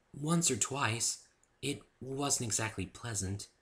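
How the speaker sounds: reluctant to recall it; hesitant Fluttershy. A narrator's reading. Fluttershy recalls the forest to the narrator, slow and hesitant.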